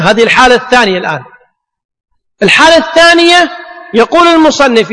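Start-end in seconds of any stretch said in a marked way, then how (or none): 2.4-3.5 emphatic call. Real, not acted. Teacher stresses point.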